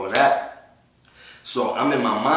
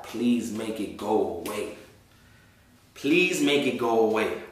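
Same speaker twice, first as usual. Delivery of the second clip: pleading prayer. Retold or imitated. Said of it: "I told God".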